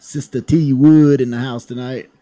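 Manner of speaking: hammed-up game show host intro; announcer intro. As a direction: bring her on like an MC.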